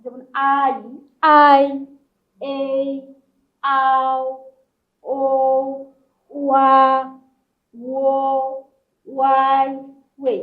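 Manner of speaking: each Chinese final held level and sounded out separately; "আই, এই, আও, ও" as isolated, sustained syllables with pauses; demonstrating finals. Shown as a demonstration. Teacher reviewing finals for Chinese class, sounded out one by one. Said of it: "সেগুলো একটু review করে নিই".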